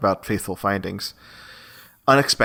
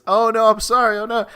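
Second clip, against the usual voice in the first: mock scream; 10 semitones higher than usual. Man screaming sorry at the woman he bumped into. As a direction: shriek the apology like a bad actor. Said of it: "they're screaming at each other automatically".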